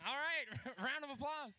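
laughing through the words; can't stop laughing. Real, not acted. Host laughs at act.

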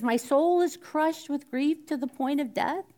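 a hint of Jesus begging his friends; Jesus pleading. Jesus asking sleeping disciples to stay awake, mild anguish. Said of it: "he says".

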